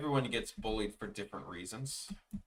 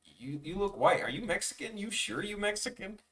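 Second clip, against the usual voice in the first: higher, lightly mocking kid voice; mocking schoolkids; 6 semitones higher than usual. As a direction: mimic the doubting classmates. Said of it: "everyone's like".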